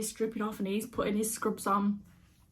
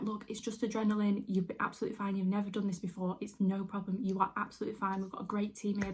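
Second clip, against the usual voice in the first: gently matter-of-fact, soothing retelling; imitated reassurance; 3 dB quieter than usual. Theatre lady to nervous patient before surgery, imitated reassurance. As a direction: retell someone calmly putting a patient at ease. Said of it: "She was so reassuring".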